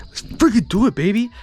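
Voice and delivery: loud, high hype call; hyped shout. Real, not acted. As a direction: pump the audience up. Hyping up the audience.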